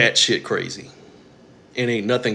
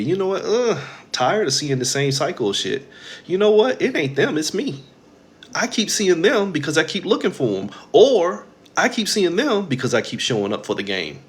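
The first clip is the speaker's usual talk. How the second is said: higher, lightly acted dawning realization; realizing inner voice; 5 semitones higher than usual. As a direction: act out the moment it clicks. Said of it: "That's how your thoughts have to be".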